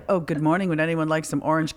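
low, soft retold courtesy; mock-gracious offer, kept low and soft; polite morning host. Friend retelling morning greeting to unwanted guest, polite.

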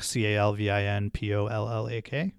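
letter by letter, clearly spaced; spelling it out. Shown as a demonstration. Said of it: "I'm on Twitter at Calvin Pollack".

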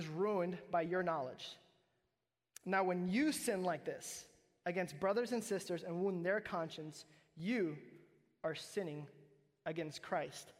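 measured, emphatic reading of scripture. Acted. Pastor reading Corinthians to the congregation, emphatic. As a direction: read the verse to the church with weight.

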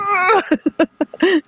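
high, long put-on "argh"; playful high-pitched roar of frustration; mock rage growl. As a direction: imitate someone venting in fury. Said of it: "raging, you know, and he's on Facebook".

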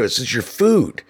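lightly sweet "This is your food"; mock helpful. Narrator returning the trash to the litterer, fake-helpful. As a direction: offer it back like a kindness. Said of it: "trying to be as helpful as possible".

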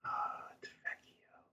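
whispered name. Real, not acted. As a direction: breathe the name unvoiced.

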